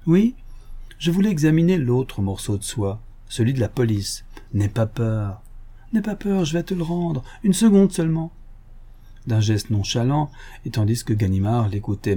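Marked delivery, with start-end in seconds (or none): 0.1-8.3 lightly voiced gentleman thief, teasing; mock friendly, toying with him; sly Lupin. Lupin teases the inspector about the silk, lightly voiced.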